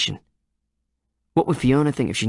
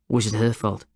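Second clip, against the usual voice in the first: reasonable. Acted. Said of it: "his tone suddenly reasonable again".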